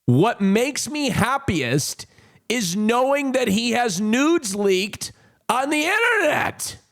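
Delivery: slow read rising high at the end; quoted post. Retold or imitated. Streamer reading a quote retweet about himself, rising and incredulous. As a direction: read the post slowly, climbing to a high finish. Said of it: "and said this".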